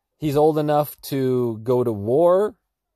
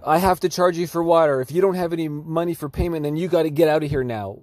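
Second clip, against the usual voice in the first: imitating a pushy shop owner, higher-pitched; mock stern demand; 5 semitones higher than usual. Commentator mimics shop owner refusing free water, mock stern. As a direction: lay down the rule in a put-on voice.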